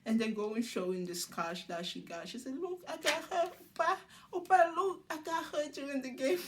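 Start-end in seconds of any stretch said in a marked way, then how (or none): 2.6-6.4 high-pitched, excited mimicry; raised voice, playfully re-enacting her; excited showing off. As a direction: act out an eager "look at this". Acting out showing off scratch.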